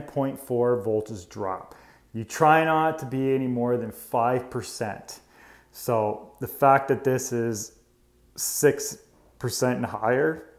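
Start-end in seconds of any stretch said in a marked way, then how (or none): 5.7-10.5 words broken by hiccups; hiccuping. Real, not acted. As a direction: speak through real hiccups. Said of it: "sorry, I'm hiccuping".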